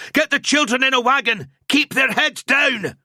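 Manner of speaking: high, loud shout. A narrator's reading. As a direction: shout him down firmly. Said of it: "Gruber shouted".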